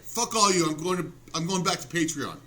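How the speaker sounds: mock-angry threat, punched at the start; sarcastic outburst. Comedian reading his post to ignoring followers, sarcastic mock anger. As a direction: play the huffy walkout for laughs. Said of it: "this should tell you I'm being sarcastic".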